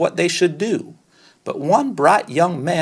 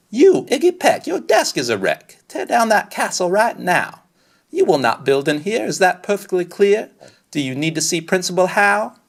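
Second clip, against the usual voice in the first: scolding teacher; 2 semitones higher than usual. Acted. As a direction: snap at the boy like a stern teacher. Teacher scolding Iggy in class.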